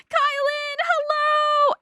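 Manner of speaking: high, loud cheerful hello; excited greeting. Real, not acted. Streamer happily welcoming a viewer, high and loud. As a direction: greet the newcomer brightly.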